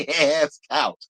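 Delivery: egging her on, gleeful; hyped cheering. Retold or imitated. Cheering Wendy on to roast the castmate, hyped. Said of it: "I said".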